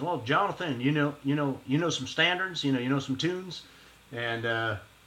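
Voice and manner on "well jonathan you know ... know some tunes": put-on broad Texas accent. Recounting an audition, quoting the teacher Randall Dallahan: Randall Dallahan's Texas accent. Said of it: "he's got that Texas accent. He says".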